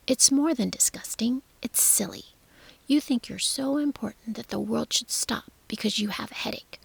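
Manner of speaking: put-on scornful whispered girl lecture. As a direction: scold him with contempt. Mary lectures Colin angrily.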